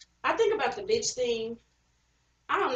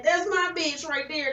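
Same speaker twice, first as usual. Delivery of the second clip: slow, fond and proud; affectionate Black girl voice; 5 semitones higher, slower than usual. Retold or imitated. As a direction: say it like praising a friend. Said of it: "when Black girls do it, it's like".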